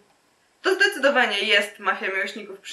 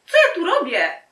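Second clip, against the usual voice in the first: much higher, mock-girlish voice; high-pitched flustered question; 8 semitones higher, 5 dB louder than usual. Girl wonders why she is here, high and flustered. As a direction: ask it way up high. Repeated take in put-on high voice.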